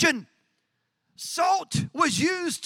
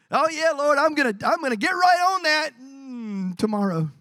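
mock procrastinator. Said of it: "We love us some tomorrow".

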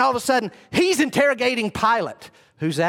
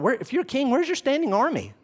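challenging Pilate; 5 semitones higher than usual. Acted. Mimics Pilate challenging Jesus.

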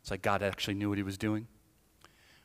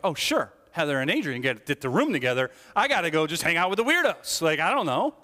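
louder, whiny grumble; sarcastic sulky complaint; 4 semitones higher, 5 dB louder than usual. Retold or imitated. Student grumbling about rooms, sarcastic and sulky. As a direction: complain like a resentful kid left out.

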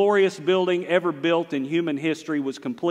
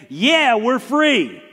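joyful cry; 8 semitones higher, 6 dB louder, much slower than usual. Acted. Israel celebrating freedom.

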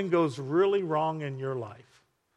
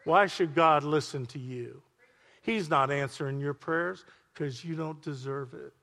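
softer, taunting little voice in your head; little accusing voice; 3 dB quieter than usual. Acted. Preacher voicing the voice that mocks your prayers, hushed. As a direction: needle the praying listener with quiet doubt. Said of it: "You hear that little voice say".

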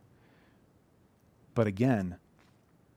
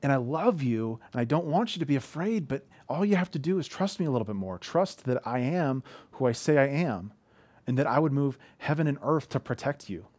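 parental reassurance; 3 semitones higher than usual. Retold or imitated. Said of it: "I'm like".

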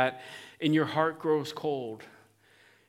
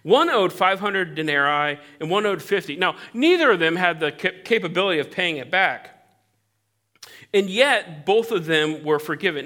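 animated telling; 3 semitones higher, 6 dB louder than usual. Acted. Jesus telling parable to Simon.

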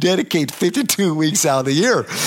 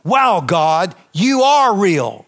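awed revelation; much slower than usual. Retold or imitated. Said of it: "this came out of my spirit".

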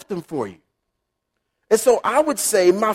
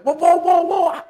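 high, lively call of whoa to stop someone leaving; a playful God hollering wait, whoa; God calling after you; 6 semitones higher than usual. Retold or imitated. God calling back a hurried praying believer, lightly playful. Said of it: "And we kinda leave God with".

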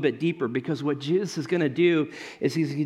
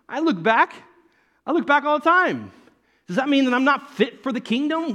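laughing confession; 8 semitones higher, 4 dB louder than usual. Real, not acted.

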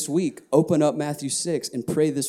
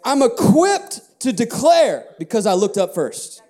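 emphatic claim; 3 semitones higher, 3 dB louder than usual. Shown as a demonstration. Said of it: "you see the difference?".

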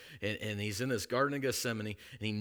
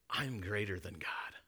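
whisper; 2 semitones lower, 6 dB quieter than usual. Retold or imitated. Voicing Lucifer's boast.

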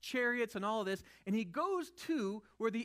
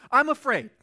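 mock fear; 3 semitones higher, 13 dB louder than usual.

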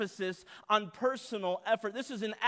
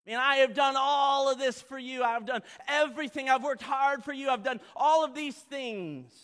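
higher, insistent, aggrieved boasting; slimy self-righteousness; 4 semitones higher than usual. Acted. Resentful son listing his service to his father, slimy self-righteousness. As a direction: pile up your good deeds, pitched high. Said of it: "Can you feel the sliminess of this?".

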